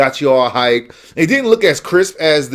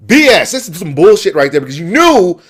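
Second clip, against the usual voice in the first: mad. Real, not acted. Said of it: "I'm mad about it".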